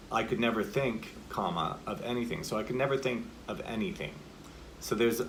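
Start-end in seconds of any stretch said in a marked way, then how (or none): 0.1-2.4 brief suspended pause after THINK, then "of anything" settles down; comma after THINK. Shown as a demonstration. Coach showing students punctuation, spoken comma after THINK. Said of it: "with a comma, we could say". 2.6-4.1 slight break after THINK, down energy into ANYTHING; comma after THINK. Shown as a demonstration. Coach showing a comma in monologue, down energy after THINK. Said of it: "it's a little bit of a down energy".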